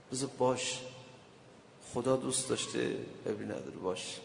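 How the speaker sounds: softly, letting the words fade; calm surrender, almost under the breath; quiet acceptance. Acted. Sick man accepts his illness.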